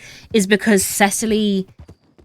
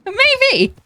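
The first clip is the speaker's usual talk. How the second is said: playful squeak; 5 dB louder than usual. Real, not acted. Teasing echo of maybe.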